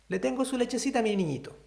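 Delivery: a mother offering the bottle, lightly voiced; mother to baby. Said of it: "Le dice".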